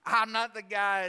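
wriggle out of it in a put-on voice; reluctant. Preacher plays Moses balking at God's call, mock-reluctant. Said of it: "He's not really keen on it".

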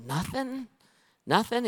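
high disbelieving nothing, nothing; incredulous. Retold or imitated. Pastor asking the teen in disbelief, high and incredulous. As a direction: pitch jumps up in disbelief.

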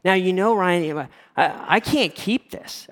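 fired up. Retold or imitated. Mother-in-law bursting to share the engagement news, fired up. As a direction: imitate an excited mom, words drawn out. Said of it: "She gets fired up".

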